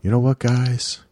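lightly imitated co-host; a hint of someone else's voice; Brett impersonation. Host filling in for muted co-host, light impersonation. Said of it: "I'm gonna do my Brett impersonation".

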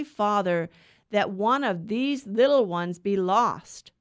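measured liturgical reading voice; Gospel reading. Acted. Gospel read at Mass.

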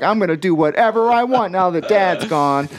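put-on high, petulant whiny teen; whiny emo voice. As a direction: whine it like a sulky emo kid. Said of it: "you've given him a whiny emo voice".

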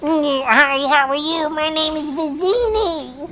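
very high, loud character voice; hammed-up squeal of a self-introduction, stretched slow; Vizzini. Shown as a demonstration. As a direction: announce yourself in a piercingly high put-on voice. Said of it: "Do that voice again".

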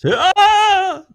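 high, loud wizard battle cry; Gandalf battle cry. Retold or imitated. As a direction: shout it like an old wizard in battle. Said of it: "excited Gandalf battle noises".

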